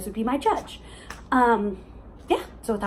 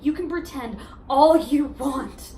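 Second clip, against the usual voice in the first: halting, heartfelt reasoning with long pauses; earnest, hurt challenge; pained insistence. Acted. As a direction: press an ex to admit their feelings. Monologue, challenging ex-boyfriend's denial.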